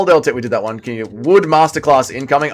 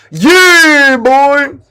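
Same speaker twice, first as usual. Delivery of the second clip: loud, high celebration yell; victory yell; 11 semitones higher, 7 dB louder, much slower than usual. Real, not acted. Streamer celebrating his win, high victory yell. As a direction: roar it out like you just won.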